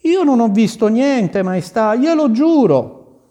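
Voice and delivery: pleading gardener. A narrator's reading. Gardener swears innocence.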